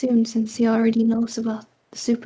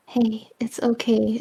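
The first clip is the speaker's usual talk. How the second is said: whispered, gentle and reassuring; soothing whisper. Acted. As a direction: angel whispering comfort into a frightened man's mind. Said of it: "she soothes him".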